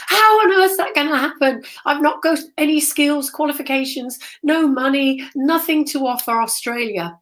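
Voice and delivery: half-acted outburst of protest, pitched high; retold scream. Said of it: "I just screamed at them".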